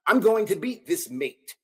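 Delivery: light British accent, same confident line; a quick, playful British take on it. Shown as a demonstration. Fight vlogger redoes Paddy's boast in British accent. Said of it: "How will you say that in a British accent?".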